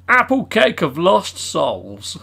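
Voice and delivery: slow, ominous villain reading; evil cake name. Acted. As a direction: intone it like a dark spell. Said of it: "that evil frickin' cake".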